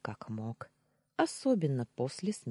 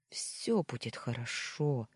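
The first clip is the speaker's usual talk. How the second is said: gentle, slower, softer reassurance; soft reassuring; 2 semitones lower, 4 dB quieter than usual. Acted. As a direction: soothe her quietly. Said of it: "повторил он, осторожно".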